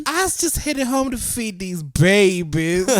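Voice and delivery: feminine voice. Retold or imitated. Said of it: "You do the black voice better".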